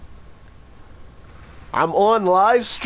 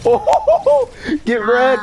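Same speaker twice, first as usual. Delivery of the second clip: excited taunt; 4 dB louder, much slower than usual. Real, not acted. Taunting opponent in game.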